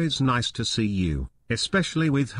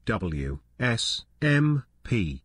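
radio DJ voice. Acted. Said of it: "radio bit continues".

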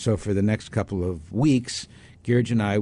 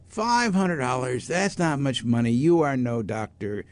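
guru voice; 3 semitones higher than usual. Retold or imitated.

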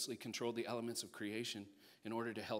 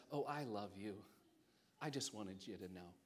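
tender reassurance; 4 dB quieter than usual. Acted. Jesus tenderly addresses the woman.

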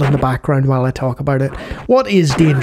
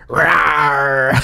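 dragon roar. Retold or imitated. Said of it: "a dragon noise into a microphone".

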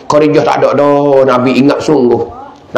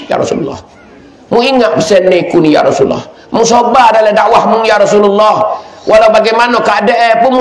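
Khadijah pleading. Acted. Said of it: "ni Khadijah".

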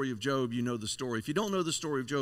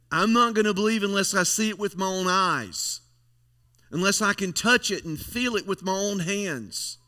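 insistent Thomas; 4 semitones higher, 5 dB louder than usual. Acted. Thomas quoted demanding proof.

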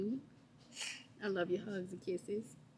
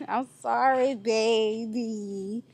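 laughing apology; 8 dB louder, much slower than usual. Real, not acted. Laughing apology after prank.

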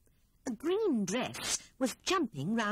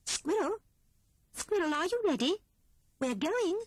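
high, louder call up the stairs; calling upstairs; 11 semitones higher, 3 dB louder than usual. A narrator's reading. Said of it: "called Grey Rabbit at the foot of the stairs".

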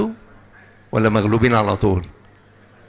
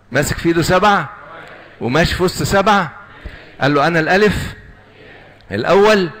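raised, emphatic scripture proclamation; preaching at full force; 6 semitones higher than usual. Acted. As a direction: proclaim the vision with rising force. Preacher reads Revelation vision aloud. (وعظ بقوة وحماس)

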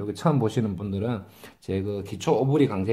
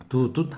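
둣 short and detached; staccato. Shown as a demonstration. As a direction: clip 둣 off sharply. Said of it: "스타카토로 잡아준다".

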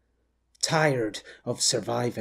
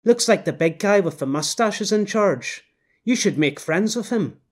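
higher, louder knowing wife voice; knowing woman; 6 semitones higher, 4 dB louder than usual. Acted. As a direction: talk down to him like a know-it-all wife. Woman character voice.

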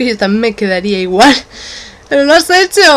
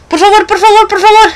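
pleading; 9 semitones higher, 4 dB louder than usual. Acted. Begging her to laugh again.

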